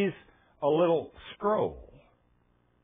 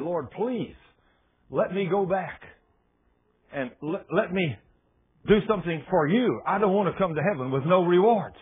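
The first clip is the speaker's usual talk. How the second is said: raised-pitch plea, halting then louder; acted pleading, building in force; desperate begging; 4 semitones higher, 4 dB louder than usual. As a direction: beg to be sent back, stumbling over words. Preacher begs God to return.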